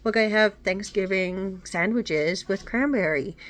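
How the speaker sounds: put-on tearful little girl. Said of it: "Frances is crying".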